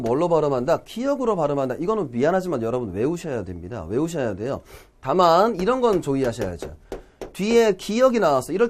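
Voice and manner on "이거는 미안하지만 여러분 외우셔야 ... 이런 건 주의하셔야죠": normal talking voice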